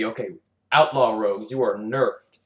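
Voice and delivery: lightly voiced curt announcement from the developers; a hint of official decree, naming Outlaw Rogues; mock Blizzard announcement. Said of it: "and then they go back on it and say".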